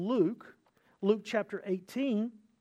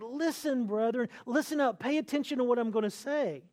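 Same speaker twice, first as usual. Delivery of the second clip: a touch higher, pressing Listen and listen up; emphatic; 3 semitones higher than usual. Retold or imitated. James urging believers to pay attention, emphatic. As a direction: urge them firmly to pay attention. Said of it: "so he makes it emphatic".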